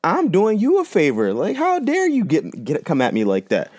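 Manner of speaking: high, slowed, outraged imagined comeback; seething inner rant. Retold or imitated. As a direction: pitch jumping way up, slowed and indignant. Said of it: "I'm honestly seething pissed off".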